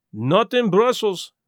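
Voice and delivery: a light touch of a French-Belgian detective; lightly voiced fussy Belgian, slow; a hint of a prim foreign detective; Poirot voice. A narrator's reading. Poirot's accented reply.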